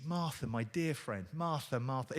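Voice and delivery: soft, gentle, loving call of her name; tender. Shown as a demonstration. Jesus gently calling Martha, softly and tenderly. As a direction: say her name like a dear friend. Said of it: "It's not".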